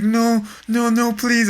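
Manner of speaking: put-on high, pleading child voice; imitated frightened kid. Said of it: "put the fear of God in him".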